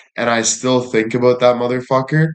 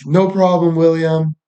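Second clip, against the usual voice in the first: imitating the agent in a higher voice; mock high phone voice; high-pitched voice; 5 semitones higher than usual. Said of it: "a more high-pitched voice than normally".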